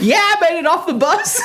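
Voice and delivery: high excited cartoon voice; high, playful cartoon shout-along; cartoon bit. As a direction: join the bit in a high-pitched voice.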